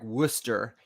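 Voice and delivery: Worcester squeezed to two syllables, "WUSS-ter"; Boston-area Worcester. Shown as a demonstration. Quoting people from Boston area, Worcester as WUSS-ter. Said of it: "people who are from the Boston area who say that".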